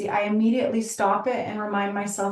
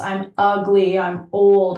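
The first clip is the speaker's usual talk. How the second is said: louder, half-acted wail of self-criticism; mock distressed cry; 6 dB louder, slower than usual. Woman at the mirror, mock distressed cry at her wrinkles. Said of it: "whatever your story is".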